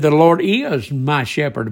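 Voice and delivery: firm stress on "is" in "The Lord is"; very emphatic. Retold or imitated. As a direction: lean on "is", then state "my shepherd" firmly. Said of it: "very emphatically".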